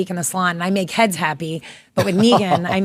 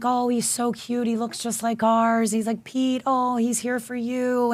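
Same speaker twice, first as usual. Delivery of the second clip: soft and tender; 4 semitones higher, 3 dB quieter, slower than usual. Retold or imitated.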